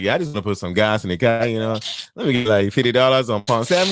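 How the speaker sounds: put-on lilting Nigerian-accented gas customer; mimicked singsong Nigerian accent. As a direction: imitate a Nigerian accent, almost singing it. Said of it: "It's like they singing".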